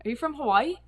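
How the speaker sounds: put-on a local kid calling out to a fellow islander; local kids greeting. Local kids greet her at In-N-Out.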